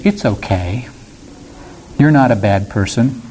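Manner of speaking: a gentle verbal pat on the head; soothing reassurance. Acted. Preacher voices a pat on the head, soothing reassurance. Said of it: "a pat on the head that says".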